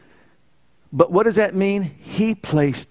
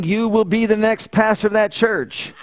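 raised, higher-pitched booming command; loud voice; 5 semitones higher than usual. Retold or imitated. Loud voice breaks in on a driver heading down Route eleven, raised and commanding. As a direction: imitate a loud voice from nowhere. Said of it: "I hear this loud voice".

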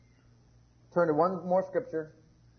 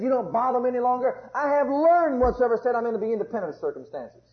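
bold confession; 5 semitones higher, 4 dB louder than usual. Acted. Preacher voicing a believer's confession.

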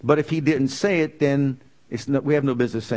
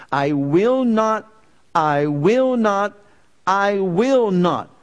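emphatic repeated vow; 4 semitones higher, slower than usual. Acted. Preacher booming God's promise to the church. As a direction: hammer each I will not home.

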